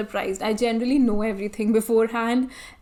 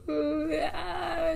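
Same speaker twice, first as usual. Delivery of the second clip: soft, high mock sob; mock crying; 6 semitones higher, 6 dB quieter than usual. Bride imitating herself bawling at her proposal, mock crying. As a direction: imitate your own bawling, softly. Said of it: "I was bawling my eye".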